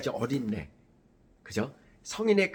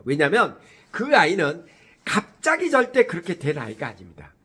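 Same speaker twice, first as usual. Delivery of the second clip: ordinary delivery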